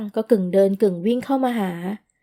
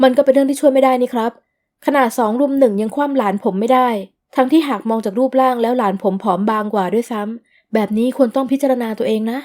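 louder, cutting in firmly; blurted interruption; 3 dB louder than usual. Acted. Blurting in over her. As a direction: uncle cuts off the mother, firm and louder. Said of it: "ภาวินก็โพล่งขัดขึ้น".

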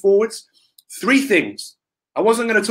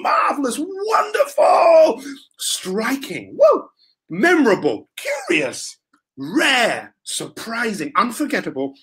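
words said higher, some hammed up with squeals; mock excited word list; 3 semitones higher than usual. Shown as a demonstration. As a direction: play up each word with wild excitement. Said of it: "Let's say those words again".

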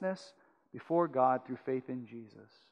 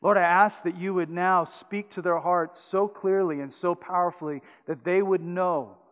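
hushed, earnest prayer voice. Acted. Closing prayer.

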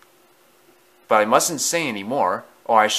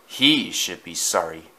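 curt retort; 5 semitones lower than usual. Acted. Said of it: "retorted Thomas".

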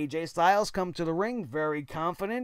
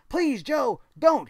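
mock plea; 6 semitones higher, 6 dB louder, slower than usual. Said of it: "and then A J goes".

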